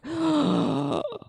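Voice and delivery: high, drawn-in gasp. Real, not acted. Streamer reacting to a raid, audible gasp.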